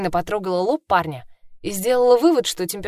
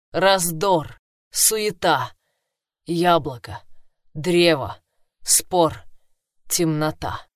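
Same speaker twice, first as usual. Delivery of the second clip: hoarse inhuman voice; 2 semitones lower, much slower than usual. Acted. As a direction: murmur it slowly like a possessed oracle. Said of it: "хриплый и нечеловеческий голос Ноа".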